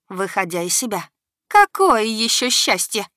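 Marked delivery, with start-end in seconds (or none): 1.5-3.1 loud, slow, high fury; furious. A narrator's reading. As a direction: sneer in rage. Furious goddess retorts. (яростно)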